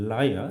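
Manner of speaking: লায়া said as one smooth gliding syllable; demo pronunciation. Shown as a demonstration. Teacher shows students a triphthong, gliding smoothly. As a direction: glide লায়া through three vowels without a break. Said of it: "এই শব্দটি যদি উচ্চারণ করি".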